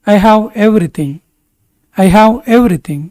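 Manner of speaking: slow, measured English for learners; slow model sentence. Shown as a demonstration. Teacher models English for Kannada learners, slowly and deliberately. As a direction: say it slowly with spaced words.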